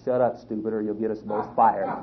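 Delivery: low, soft punchline aside; hushed scolding. Retold or imitated. Fake lion to panicking gorilla co-worker, hushed scolding. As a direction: scold under your breath, low and secretive.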